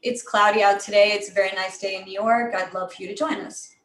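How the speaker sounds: "cloudy out today" and the rest in one repeated falling tune; same dull pattern, sinking on "join us"; unenthusiastic, predictable pattern. Shown as a demonstration. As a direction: recite "I'd love for you to join us" without enthusiasm. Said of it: "doesn't communicate a lot of enthusiasm or change".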